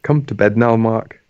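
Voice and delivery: half-hearted Scouse; reluctant attempt at a Scouse accent. Shown as a demonstration. Podcast host reluctantly signing off on request, half-hearted Scouse accent. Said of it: "attempt that in a Scouse accent".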